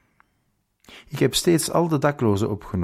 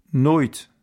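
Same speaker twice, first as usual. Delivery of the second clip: a firm, raised refusal; resolute; 5 semitones higher, 4 dB louder than usual. Acted. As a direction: plant your feet and refuse. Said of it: "antwoordde ik vastberaden".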